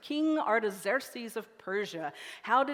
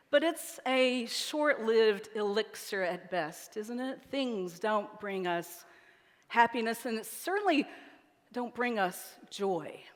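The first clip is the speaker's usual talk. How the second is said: sermon. Acted. Preacher slows to point.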